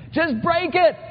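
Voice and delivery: high, laughing burst of impatience; laughing exasperation. Real, not acted. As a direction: laugh it out, fed up with the dithering. Mocking the hesitant guy.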